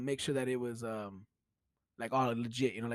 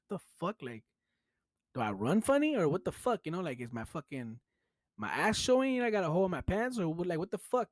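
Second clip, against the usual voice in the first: higher-pitched baffled questioning; retold bewilderment; 5 semitones higher than usual. Storyteller wondering why the coworkers laugh at him, bewildered. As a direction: replay being puzzled and self-conscious. Retelling his confusion at being laughed at.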